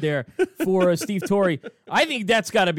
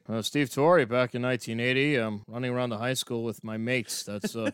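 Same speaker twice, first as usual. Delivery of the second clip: a hint of a low, softer throwback character; lightly voiced eighties Steve Torrey; 4 semitones lower, 4 dB quieter than usual. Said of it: "You guys wanna go back to the eighties with me?".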